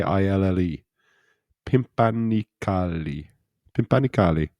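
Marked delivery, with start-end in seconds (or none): 1.7-3.3 slow Italian-sounding syllables; Italian lilt, stretched out; Italian accent. Real, not acted. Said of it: "sounded like an Italian accent". 3.8-4.5 Italian-sounding lilt; lightly Italian pronunciation; Italian accent. Real, not acted. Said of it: "sounded like an Italian accent".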